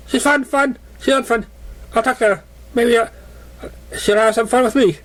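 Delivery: high, bouncy carefree pony voice; cheerful pony. Acted. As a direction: chirp it like an oblivious playful pony. Memory Her cheerful pony voice.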